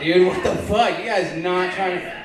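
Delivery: ordinary talk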